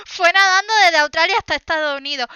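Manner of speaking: loud amused sarcasm; deadpan joke pushed out loud; laughing. Real, not acted. Host joking about swimming from Australia, amused.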